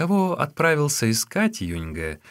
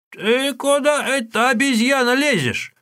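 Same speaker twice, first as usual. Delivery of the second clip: high, loud, slow scolding cry; old woman shouting; 5 dB louder than usual. Acted. Old woman stops the boy entering the teahouse, shouting. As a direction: stop him with a shrill-pitched yell. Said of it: "крикнула старуха".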